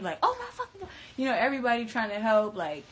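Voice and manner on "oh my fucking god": retold scream. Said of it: "Courtney screamed".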